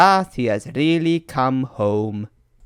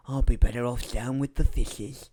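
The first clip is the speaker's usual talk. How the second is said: muttered whisper; 3 semitones lower, 6 dB quieter than usual. Acted. Bitter old tug mutters.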